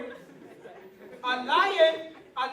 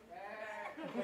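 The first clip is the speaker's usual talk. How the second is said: sheep bleat; 4 semitones lower, 14 dB quieter than usual. Retold or imitated. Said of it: "the lion who grew up with the sheep said".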